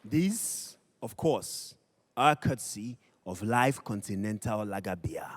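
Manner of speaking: breathy whispered sponsor mention; whispered aside. Acted. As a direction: lean in and whisper it like a secret. Host aside about sponsor gifts.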